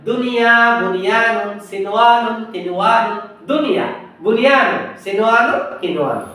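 the four words recited clearly in a row; drill recitation. Shown as a demonstration. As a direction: call out the four exception words for repetition. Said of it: "বলেন".

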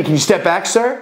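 high, stiff, by-the-book order; stern Boy Scout cop. Retold or imitated. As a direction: order him back like an eager rookie. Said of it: "Captain America, Boy Scout".

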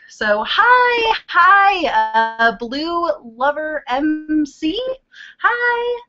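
high, happy hellos; excited greeting. Real, not acted. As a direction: greet viewers with delight. Greeting viewers in chat.

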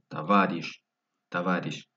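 "Товарищ" stressed on "ва", first O as A; "Товарищ" as ta-VA-rish; stress on second syllable. Shown as a demonstration. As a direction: lean on "ва" in "Товарищ". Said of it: "no lleva acento en la O".

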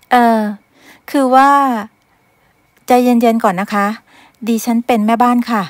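flustered, rushing to calm him; flustered maid. Acted. A maid flustered before her angry master.

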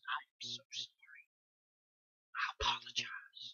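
soft, half-whispered sorry to the crowd; mock hushed apology. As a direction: apologize under your breath, tongue in cheek. Mock apology to chip buyers.

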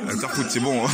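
amused, laughing echo of the clip. Real, not acted. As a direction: repeat it through a laugh. Laughs repeating words from the clip.

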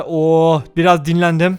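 slow, relaxed Oo biraz dinlendim with a long sigh-like Oo; contented drawl. Real, not acted. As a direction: sink into it, taking time. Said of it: "repeated line".

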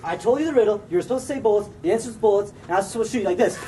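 exasperated. Real, not acted. Exasperated at wrong answer.

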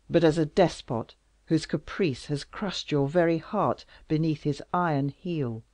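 loud, wounded royal reproach; bitter king. Acted. King accusing Louise of fleeing him, loud. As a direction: accuse her with hurt pride. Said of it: "cried Louis".

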